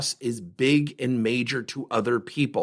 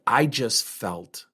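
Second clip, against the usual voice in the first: very slow, stalled and lower; hesitant trailing off; 4 semitones lower, much slower than usual. Retold or imitated. Friend stalling when asked to stay calm, slow and hesitant. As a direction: she stops and can't find the words. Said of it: "She stops and she said".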